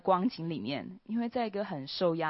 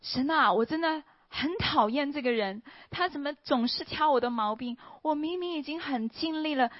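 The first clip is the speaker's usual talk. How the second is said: high, loud, exasperated complaint to God; angry outburst; 7 semitones higher, 4 dB louder than usual. Retold or imitated. Fed up, complaining to God about a nagging colleague, loud and angry. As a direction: vent your anger at God, higher and louder. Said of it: "开始跟神，呃，发脾气".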